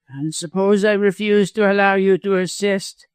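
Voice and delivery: high-pitched, needling villain; mean cowardly lawyer, defiant. A narrator's reading. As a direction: challenge them in a high, mean voice.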